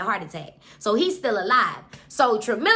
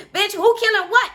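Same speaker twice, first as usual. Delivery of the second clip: jumpy Vontavious; 9 semitones higher, 5 dB louder than usual. Retold or imitated. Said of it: "Vontavious like".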